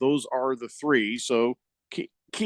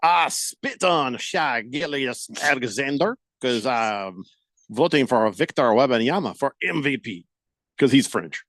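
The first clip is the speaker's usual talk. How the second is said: mock French accent; 2 semitones lower than usual. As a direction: imitate a Frenchman, stretching the words. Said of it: "he, he says".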